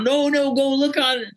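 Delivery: high, eager mock plea; a retold "no, no", insisting to doubting friends; insistent protest.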